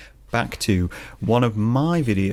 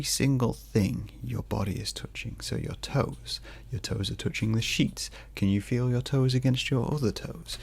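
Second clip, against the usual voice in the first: soft guided relaxation; 3 dB quieter than usual. Shown as a demonstration. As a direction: talk them gently toward sleep. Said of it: "guides through falling asleep".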